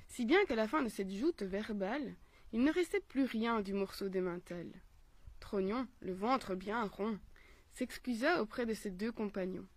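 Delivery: measured, carefully paced storytelling; story narration. A narrator's reading. Mother reading a philosophical tale for children, storytelling voice. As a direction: read the fable aloud phrase by phrase.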